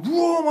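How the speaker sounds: high drawn-out car zoom; imitated engine roar. Storyteller as the car takes off, imitated engine roar. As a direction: zoom away with your voice.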